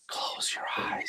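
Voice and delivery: soft dental-office whisper. Retold or imitated. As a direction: breathe it out gently. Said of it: "Nobody that looks like this".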